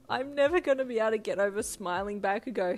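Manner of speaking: loud, amused exclamation; laughing. A narrator's reading. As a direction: say it as if cracking up. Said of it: "he laughed".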